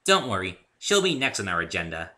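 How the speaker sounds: cheerful light voice; with a smile. Acted. Pinkie cheering up the narrator, smiling. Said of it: "she said with a smile".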